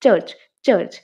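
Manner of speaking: চার্চ said as English church, both ch sounds crisp; চার্চ, a careful English church; demo of church. Shown as a demonstration. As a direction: model চার্চ with clear English ch at each end. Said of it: "pronunciation হবে যে C H".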